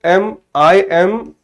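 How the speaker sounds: spelled out slowly, piece by piece; slow, careful correction for a student; slow dictation. Shown as a demonstration. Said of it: "तो यदि आपने आई लगाया है तो".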